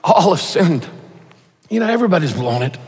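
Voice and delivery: gentle, sorrowful statement; broken-hearted. Shown as a demonstration. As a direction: say it like your heart is breaking. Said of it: "say it with a broken heart".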